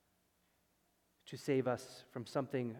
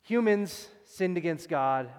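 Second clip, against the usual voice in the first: emphatic paraphrase; 4 semitones higher, 10 dB louder, slower than usual. Shown as a demonstration. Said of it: "I'm gonna say it in".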